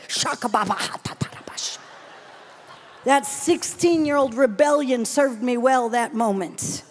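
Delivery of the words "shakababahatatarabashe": quick tongues, softer and lower; speaking in tongues. Retold or imitated. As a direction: murmur the tongues quickly under the breath.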